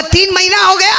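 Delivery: laughing repeat. Retold or imitated. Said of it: "क्या बोला?".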